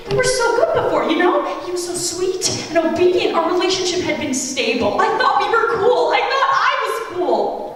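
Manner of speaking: hurt parent. Retold or imitated. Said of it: "I thought to him".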